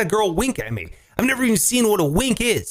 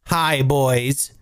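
high, mock-indignant shouting at a bot; mock outraged rejection; 6 semitones higher, slower than usual. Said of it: "And I was like".

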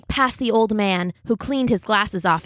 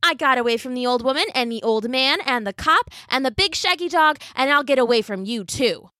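gingerbread man voice; 5 semitones higher than usual. Acted.

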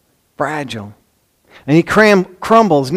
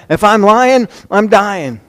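higher, emphatic swearing; mock oath; 5 semitones higher, slower than usual. Peter denying he knows Jesus, emphatically swearing.

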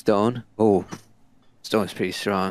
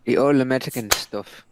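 put-on quick Irish accent; 3 semitones higher, 3 dB louder than usual. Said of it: "I spoke in an Irish accent".

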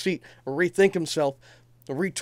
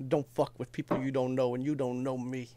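quoting menacing promo; 4 semitones lower, 9 dB quieter than usual. Retold or imitated. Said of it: "And she says".

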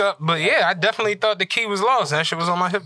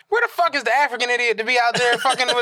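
high-pitched mock rant, amused; indignant retelling breaking into a laugh; retold snapping; 4 semitones higher than usual. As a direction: act out losing patience at the staff. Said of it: "I'm snapping".

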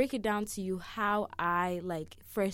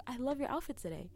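quick, gushing mock compliment; weird animated voice; 5 semitones higher, 4 dB quieter, faster than usual. Shown as a demonstration. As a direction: rattle off an overdone compliment. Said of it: "That's just a very weird animated voice".

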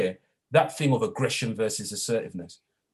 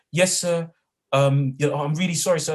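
put-on boys apologising; 5 semitones higher, 6 dB louder than usual.

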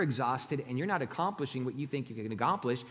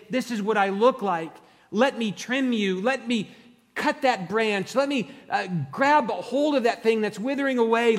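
voicing God; 8 semitones higher, 9 dB louder than usual. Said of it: "and he's saying".

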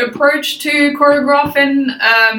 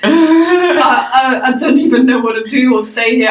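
lost for words, voice pushed up through a laugh; speechless. Retold or imitated. Podcaster retells judge stumped by the singing, mock speechless. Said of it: "like, speechless".

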